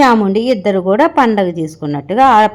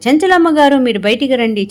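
mock shout, a bit higher and louder; retold angry summons; calling out loudly; 5 semitones higher, 3 dB louder than usual. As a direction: call her out of the house, half-acted. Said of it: "గట్టి గట్టిగా అరుచుకుంటూ వస్తారన్నమాట".

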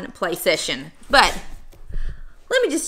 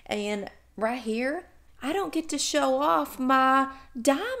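mock-wistful, soft lament; badly faked longing, lingering on words; sarcastic; 5 dB quieter than usual. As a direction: pretend to pine for it, softly. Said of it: "I'm being totally sarcastic".

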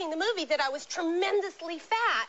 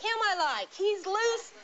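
Merv Griffin impression; 6 semitones higher, slower than usual. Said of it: "And he said".

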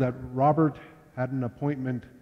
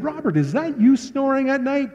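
high, pushy biker challenge; lightly voiced biker demanding an answer; tough biker; 11 semitones higher than usual. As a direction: call him out like a menacing biker. Biker confronting brother in jail.

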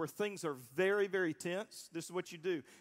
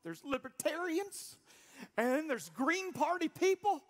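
building excited retort; 8 semitones higher than usual. Retold or imitated. Pastor retelling his answer to a churchgoer, building excitement. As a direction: build each line up the scale. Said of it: "I said".

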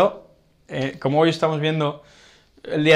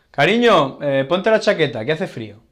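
caring reminder. Shown as a demonstration. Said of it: "es cariño".

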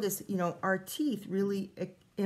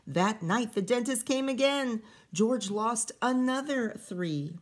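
lively read-aloud storytelling voice; story reading; 4 dB louder than usual. A narrator's reading. Teacher reading a picture book to kids, lively storytelling. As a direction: read the rhyming story to the children.

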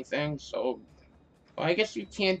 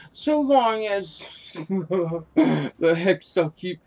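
laughing through it; much slower than usual. Real, not acted. Laughing while reading boss line.

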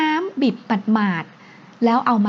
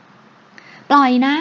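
louder, sharp demand to let go; raised-voice objection; startled protest; 2 semitones higher, 6 dB louder, much slower than usual. A narrator's reading. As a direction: protest an unwanted hug forcefully. Hugged woman demands release.

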